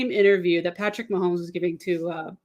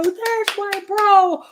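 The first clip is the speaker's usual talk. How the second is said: slow, high, stretched "There's my bro"; fan shout; 12 semitones higher, 4 dB louder, much slower than usual. Retold or imitated. Fan cheering her favorite player's touchdown, stretched high shout. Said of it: "I go".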